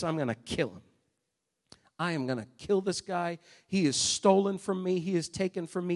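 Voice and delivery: low, restrained angry vow; mildly voiced fury, kept low; simmering anger. Preacher acts out cheated Esau vowing revenge, simmering anger. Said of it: "Esau's so angry".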